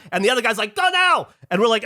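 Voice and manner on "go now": high imitated yell; urgent shouted command, pitched way up; retold scream. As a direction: mimic the guy yelling an order. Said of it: "the guy screams".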